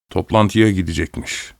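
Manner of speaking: mock her idea under his breath; husband mocks his wife's wish to attend; scornful mutter.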